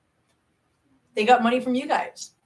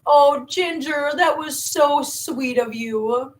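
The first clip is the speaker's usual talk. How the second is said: touched thanks; 6 semitones higher, much slower than usual. Real, not acted. Touched by viewer's comment.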